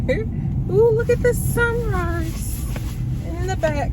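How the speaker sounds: high delighted gasp at the view; thrilled by the sunrise; excited. Real, not acted. Sees sunrise from car.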